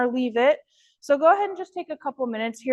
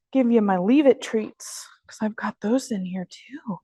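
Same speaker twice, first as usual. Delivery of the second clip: whispered aside. Real, not acted. Aside to self while training.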